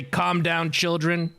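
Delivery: mild mock yell. Player tells the bickering party off, mild mock yell. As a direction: call the group to order without really shouting. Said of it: "can I just yell at them".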